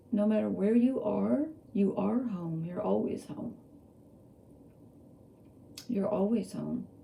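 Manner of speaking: tearful, crying, voice breaking through the words. Speaking to listeners, suddenly crying without knowing why. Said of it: "I don't know why I'm crying now".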